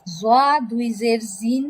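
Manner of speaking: slow spelling of জা দুই জের, ending on a drawn-out জিন; teacher sounding out জিন with a z onset; pronunciation drill. Shown as a demonstration. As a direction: recite জিন slowly as a model for pupils. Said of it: "কিভাবে উচ্চারণ করতে হয় দুই জের".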